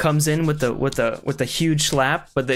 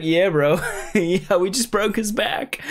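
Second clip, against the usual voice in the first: laughing dude-bro boast, a bit higher; mock chiropractor bro; 6 semitones higher, slower than usual. The chiropractor bragging to his buddy, laughing. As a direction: brag through laughter like a gym bro. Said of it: "he's like".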